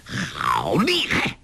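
put-on low, slow old villain's cry of pain; a lightly voiced Ouyang Feng, crying out slowly; startled cry. A narrator's reading. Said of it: "大叫".

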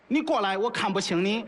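father's lines in Henan dialect; Henan hometown accent. Acted. Father calling to the dream dragon, in Henan accent. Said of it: "这是家乡话".

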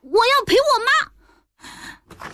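put-on high, slow, small child's voice; a stubborn little boy pleading; child's plea. Child refusing to leave. (小孩子拖长声音哀求)

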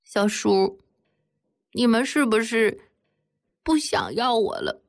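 put-on a hurt little girl crying out to her uncle; mild tearful pleading. A narrator's reading. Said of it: "哭着对他说".

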